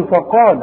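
"فقال" with a thick, heavy ف like the ق; wrong heavy faa. Shown as a demonstration. Teacher warns against this, heavy-mouthed "فقال". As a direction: mispronounce "فقال", thickening its first syllable. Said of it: "اوعى تقول لي".

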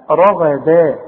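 رغدا with heavy ra-gha and a very thin da; light dal. Shown as a demonstration. Quran teacher corrects the letters of رغدا, light dal. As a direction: keep the final da of رغدا light and open. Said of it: "الدال دي رقيقة قوي".

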